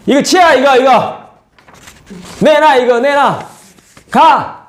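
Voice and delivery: high, loud, bossy orders; mock harsh shout. Preacher acts out snapping at a family member, loud and harsh. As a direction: bark orders at someone close. Acting rude treatment of loved ones.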